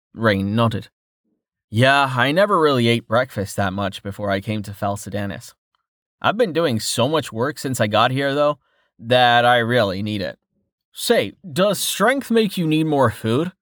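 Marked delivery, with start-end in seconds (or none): 1.7-13.5 talking through a mouthful of bread; mouth full. Acted. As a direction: speak while chewing bread. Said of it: "Don't talk with your mouth full".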